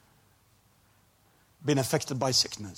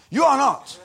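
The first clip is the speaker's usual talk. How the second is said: plain; 9 dB louder, slower than usual. Shown as a demonstration. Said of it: "That's not grammar".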